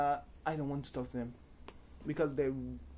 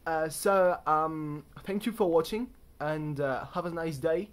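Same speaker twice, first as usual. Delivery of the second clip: loud, hammy mock British accent; bad British accent; 2 semitones higher, 6 dB louder than usual. Thanking viewers for watching in a bad British accent. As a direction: say goodbye in the fake British accent. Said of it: "close this video weblog with a terrible impression of a British accent".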